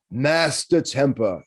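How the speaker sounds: slow, eerie call from the cat; strange voice. Acted. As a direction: draw the name out in an odd voice. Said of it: "in a strange voice".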